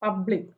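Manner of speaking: പബ്ലിക് with the first syllable emphasised; stress on first syllable. Shown as a demonstration. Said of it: "പി ആണ് ഇവിടെ stressed".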